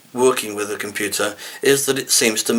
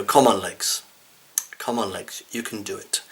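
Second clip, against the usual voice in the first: 1 tired self-encouragement; 5 dB quieter than usual. Retold or imitated. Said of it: "we talk to our legs and we go".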